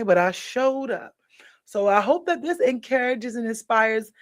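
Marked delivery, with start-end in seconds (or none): 0.0-1.1 whispering. Real, not acted. Tired, whispering to viewers.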